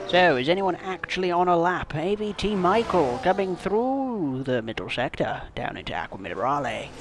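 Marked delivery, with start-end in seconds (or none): 1.9-6.9 race commentator. Pretend. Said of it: "old transatlantic accent".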